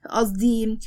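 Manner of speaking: quick embarrassed whisper; flustered whisper. Acted. Wife caught admiring her husband, whispering flustered. Flustered correction after compliment.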